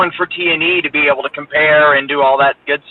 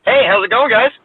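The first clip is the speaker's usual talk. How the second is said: robot voice; 7 semitones higher than usual. Real, not acted. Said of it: "you sound like a robot".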